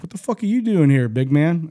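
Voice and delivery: high, mock-surprised sergeant challenge; a light imitation of a sergeant questioning the big guy; imitating a drill sergeant.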